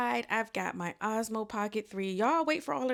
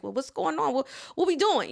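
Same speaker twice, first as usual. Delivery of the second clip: mock puzzled; 5 semitones higher, 6 dB louder, faster than usual. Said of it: "I'm like".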